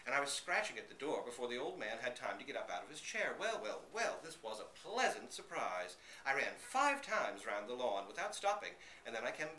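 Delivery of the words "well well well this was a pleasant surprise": higher, delighted exclamation; light up at the surprise; pleased surprise. A narrator's reading. Dog's happy surprise.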